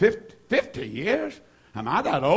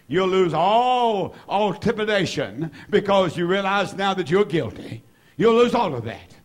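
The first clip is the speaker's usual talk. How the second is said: emphatic, building sermon delivery; fervent preaching; 4 semitones higher than usual. Real, not acted. Preacher urging the guilty to run to Jesus, fervent. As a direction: drive it home with stretched stresses.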